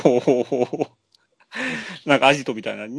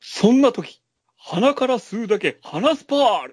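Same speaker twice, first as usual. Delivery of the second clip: much higher, bright-sold pitch of a TV ad; cheesy commercial announcer; 10 semitones higher than usual. Acted. Podcast host voicing a fake ad, peppy announcer. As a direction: sell it like a late-night ad host. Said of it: "じゃあ、コマーシャルをどうぞ。".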